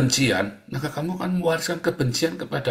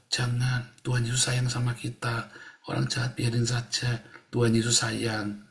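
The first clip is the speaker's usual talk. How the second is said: gentle reassurance; 6 dB quieter than usual. Retold or imitated. Mother reassures child.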